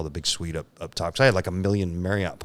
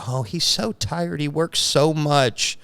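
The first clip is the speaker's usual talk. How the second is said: high, drawn-out mock-sympathetic wife; naive wife's sympathy; 8 semitones higher, 3 dB louder, slower than usual. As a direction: imitate a wife cooing with naive pity, pitched way up. Voicing his naive wife's sympathy.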